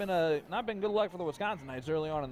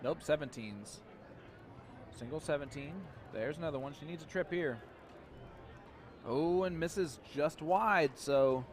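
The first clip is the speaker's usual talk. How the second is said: radio play-by-play; 3 dB quieter than usual. Acted. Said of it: "do some, uh, radio play-by-play".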